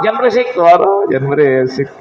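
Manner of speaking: a hint of a grumpy man snapping back; mock irritated retort. Preacher mimics a hothead told to calm down, mock irritated. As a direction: toss it off as an annoyed hothead. Mocking angry person's retort.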